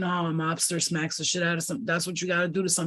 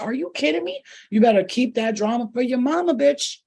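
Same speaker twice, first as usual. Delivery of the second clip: sassy; 5 semitones higher, 4 dB louder than usual. Pretend. Telling off a drama bringer.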